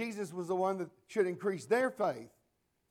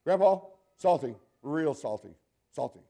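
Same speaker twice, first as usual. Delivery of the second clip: put-on teen slang taunt; 7 dB louder than usual. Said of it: "she says".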